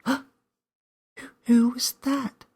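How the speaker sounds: scared stage whisper; loud whisper. A narrator's reading. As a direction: whisper hard, frightened. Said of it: "she whispered loudly".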